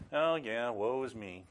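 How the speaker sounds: offhand, unbothered throwaway; mock casual. Preacher mocking a calm Isaiah before God, offhand. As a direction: toss it off as if it hardly matters. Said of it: "he wasn't standing there going".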